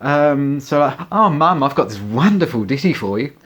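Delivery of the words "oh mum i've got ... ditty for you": teasing. Retold or imitated. Teasing mum.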